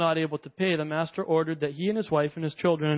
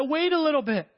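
pleading; 4 semitones higher than usual. Retold or imitated. Servant pleading to the king.

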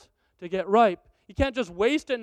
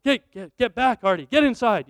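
calling son back; 6 dB louder than usual. Retold or imitated. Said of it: "I'm like".

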